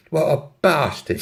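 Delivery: put-on London accent; mock disgust in a London accent. London girl cursing her ex, London accent. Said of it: "have a go at the accents".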